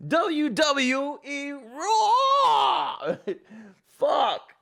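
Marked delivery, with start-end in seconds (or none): 0.1-3.2 wrestling announcer. Pretend. Announcer joke.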